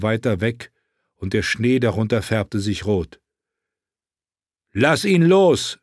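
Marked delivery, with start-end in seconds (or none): 4.7-5.8 high, loud, drawn-out yell; shouted command. A narrator's reading. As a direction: yell to make him let go. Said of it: "schrie John". (lauter, gedehnter Befehlsschrei)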